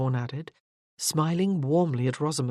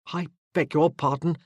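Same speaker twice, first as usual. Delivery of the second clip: quick, hurried sorry; officer quickly backing down from Morgan; hasty apology. A narrator's reading. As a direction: rush out the apology. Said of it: "he said hastily".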